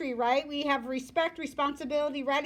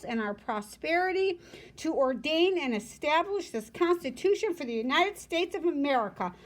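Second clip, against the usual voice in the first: reading a formal text aloud; 3 semitones higher than usual. Shown as a demonstration. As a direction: read it out like a document. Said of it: "the preamble says".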